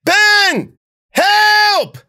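very high, loud call across the field; shout for help. A narrator's reading. Cece calling for Ben from inside the brambles. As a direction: call out desperately.

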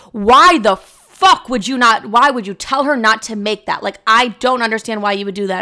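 hammed-up indignant sister yelling at mom; sister's angry rant. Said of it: "Lara was like".

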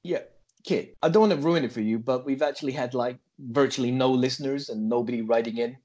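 put-on confiding in a comic American accent; stagey American confession. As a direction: break it to the kid in an American accent.

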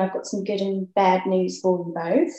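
amateur Australian accent, lightly put on; light, clumsy Aussie imitation; bad Australian accent. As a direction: attempt an Australian accent, badly. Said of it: "that's my really bad Australian accent".

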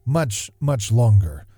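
gentle reflective reading over music; nostalgic story narration. Acted. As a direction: read it like a fond memory. Reads a nostalgic essay over music.

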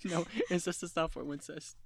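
real giggles breaking up the words; tongue-tied and cracking up; laughing. Real, not acted. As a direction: stumble through it while laughing. Cracking up over own slip.

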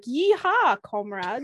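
put-on whooping yeehaw in a poor Russian accent; hammy cowboy whoop with a Russian tinge; attempted Russian accent. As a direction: play a Russian immigrant trying to pass as a cowboy. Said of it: "If only I could do a better Russian accent".

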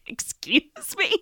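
high, slow disbelieving question; incredulous excuse me. Retold or imitated. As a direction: drag it out in disbelief.

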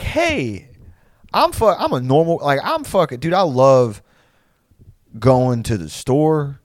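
high, loud, over-friendly small talk; mock a peppy coworker pretending to be normal; hammed-up meet-and-greet enthusiasm; fake corporate cheer. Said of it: "a corporate meet and greet".

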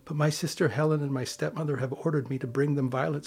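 put-on a touch of pleading girl. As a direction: beg the shepherds gently.

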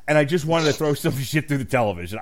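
ordinary delivery

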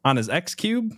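stammered, lightly hammed-up confused questioner; mock clueless senator. Co-host mimicking senator asking about his son's game box, mock baffled. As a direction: imitate a bumbling politician fumbling tech names. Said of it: "Do you remember those hearings?".

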